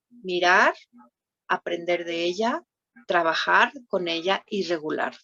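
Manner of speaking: each step set apart by pauses; slowly, step by step. Shown as a demonstration. Therapist repeating the steps slowly for the audience, deliberate pauses. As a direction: give every step its own beat. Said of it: "Yo la dije muy rápido".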